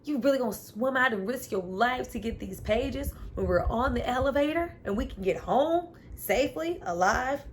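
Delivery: exasperated retelling of her complaint; mock Montrose rant. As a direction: scold him like the fed-up woman.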